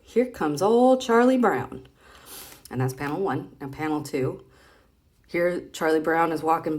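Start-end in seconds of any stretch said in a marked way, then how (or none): 0.0-1.9 put-on little boy's line. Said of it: "And the little boy says".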